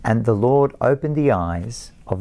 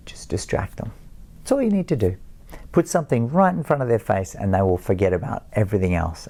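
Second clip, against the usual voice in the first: gentle advice. Retold or imitated. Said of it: "my wife will gently say".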